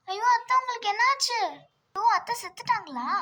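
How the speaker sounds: put-on girl panicking over her collapsed aunt, loud and alarmed; panicked cry. Niece panics over fallen aunt.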